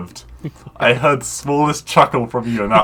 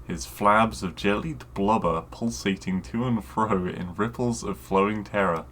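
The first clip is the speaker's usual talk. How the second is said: measured fantasy audiobook read; deadpan dramatic narrator; story narration; 8 dB quieter than usual. A narrator's reading. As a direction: narrate the pulp tale straight-faced, in even phrases. Reads bad fantasy story aloud.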